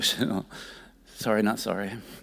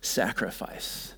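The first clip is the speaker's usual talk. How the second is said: tender prayer; slower than usual. Acted. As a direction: pray it gently. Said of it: "the goal is to just say".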